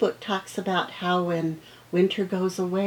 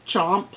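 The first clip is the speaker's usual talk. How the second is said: chomping sound word; 4 dB louder than usual. Shown as a demonstration. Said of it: "That sounds kind of like chomping".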